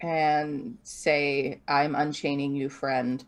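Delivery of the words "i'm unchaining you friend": gentle reassurance. Acted. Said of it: "psychically speak to the Myconid".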